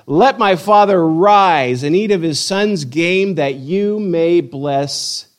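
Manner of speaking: mildly grand, slow delivery; measured, slightly lifted Bible reading; declaimed scripture quote. A narrator's reading. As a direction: read a son's formal request aloud.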